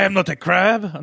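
high silly puppet voice; Muppet voice. Pretend. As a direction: play it like a Muppet. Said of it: "voicing a Muppet".

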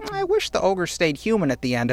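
a hint of a complaining granny; grandma. Podcaster quoting grandma's film criticism, lightly mimicked granny voice. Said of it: "my grandma will watch".

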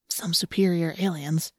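soft slow sardonic whisper. Acted. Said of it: "Marco whispered".

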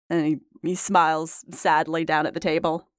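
usual speaking voice

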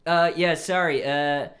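put-on loud, stereotypical California surfer accent; SoCal surfer accent. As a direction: explain yourself as a SoCal surfer. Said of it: "I'm doing the stereotypical SoCal surfer accent".

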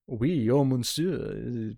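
mock French accent, lightly hammed up; throwaway fake French accent; bad French accent. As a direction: imitate someone putting on a bad French accent. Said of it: "doing this bad French accent".

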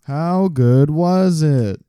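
high, slow, drawn-out question; playful gushing. Pretend. Co-host asking about the bagel, playfully gushing. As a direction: stretch every word in mock eagerness.

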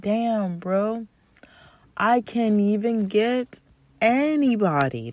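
high, mopey whine; mock whiny lament. Mocking a lonely guy, high whiny lament. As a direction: whine like a guy who can't get a date. Mocking guy's self-pity.

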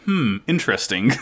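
lightly imitated meme reaction, musing; understated mock-intrigued "hmm"; Miranda Cosgrove. Host quoting the meme as Rain drives by, lightly musing. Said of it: "she does Miranda Cosgrove".

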